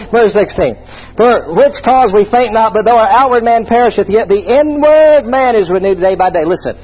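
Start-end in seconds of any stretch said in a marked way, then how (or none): 1.2-6.5 scripture reading. Acted. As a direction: read the verse with weight, unhurried. Reads scripture aloud.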